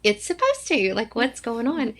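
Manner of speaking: playfully put-out self-quote; mock exasperation. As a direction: pitch jumps up on the complaint. Retold exasperated complaint about dress.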